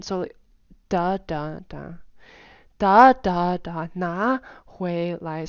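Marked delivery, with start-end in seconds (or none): 0.9-1.9 "da, da, da" stepping down; successively falling pitch. Shown as a demonstration. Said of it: "the pitch would go down". 2.8-5.5 every syllable goes up, the whole line steps down; rises stepping downward. Shown as a demonstration. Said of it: "it's successively sort of, like, going down".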